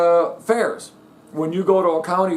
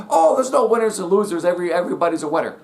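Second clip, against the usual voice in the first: mocking parents; faster than usual. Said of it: "parents are teaching their kids".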